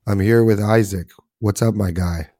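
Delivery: rough, worn-out voice after coaching games; hoarse from shouting all season. Real, not acted. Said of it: "using my coach voice".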